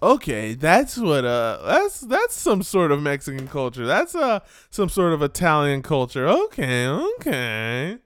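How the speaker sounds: hesitant, sing-song mock viewer; a hint of naive musing, swooping up and down; lightly voiced clueless viewer. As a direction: lightly mimic an outsider working it out. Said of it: "for Tommy and Susan to be like".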